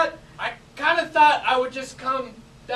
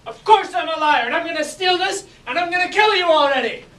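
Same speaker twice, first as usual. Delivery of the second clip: acted mafia threat; 2 semitones higher, 4 dB louder than usual. Improv scene, mafia quarrel.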